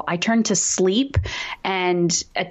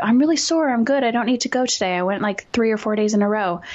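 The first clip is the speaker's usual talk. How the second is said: whiny excuses; 3 semitones higher, faster than usual. Retold or imitated. Talking herself out of going to the gym, whiny excuses. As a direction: talk yourself out of the gym, whining. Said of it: "talk myself out of it".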